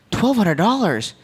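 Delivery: mock outrage, rising on the question; indignant disbelief. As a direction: act out an outraged customer balking at a bill. Customer protests the vet's bill.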